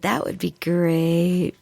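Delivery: slow, lightly voiced boss; a hint of a smug office boss; boss impression. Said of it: "the boss always said".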